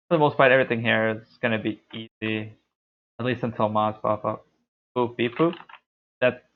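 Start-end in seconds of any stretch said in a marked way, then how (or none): 5.0-5.5 lightly voiced robot beeps; a hint of robot in spoken beeps; robot talk. Streamer toys with a voice for viewers, light robot talk. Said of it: "I could talk beep, boop".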